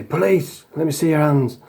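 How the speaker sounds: imitating a bully posing as police; mock police shout. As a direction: bark it like a fake undercover cop. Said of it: "he'd jump out and say".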